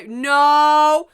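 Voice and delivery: loud, rising cries of denial; horrified refusal. Acted. Student first sees the body, horrified refusal.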